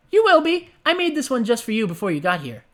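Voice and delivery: high, gleeful pony voice; gleeful Pinkie. Acted. Pinkie reassures her late friend, high and gleeful. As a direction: beam out every word, high and giddy.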